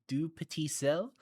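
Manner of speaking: "du petit sel" said as French, puh-TEE; French twist. Shown as a demonstration. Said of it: "like, a French twist on it".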